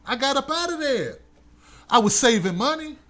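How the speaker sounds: normal talking voice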